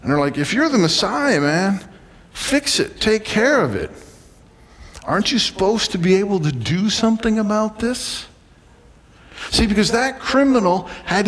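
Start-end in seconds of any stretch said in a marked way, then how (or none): 0.4-8.3 higher, demanding retold voice; impatient challenge. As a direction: push him to act, pitch raised. Voices people challenging the Messiah.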